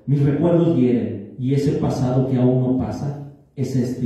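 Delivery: poem recitation. Acted. Poet shares Entre Sueños after the maestro, steady poem recitation. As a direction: declaim the poem line after line. Reads own poem aloud.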